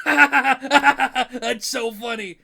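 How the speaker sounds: loud, high, hammed-up fake guffaw; mock hysterical host laugh, carried into the words; Jimmy Fallon laughing. Host cracks up at a neighing horse, exaggerated high laughing. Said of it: "another horse neighs and he's like".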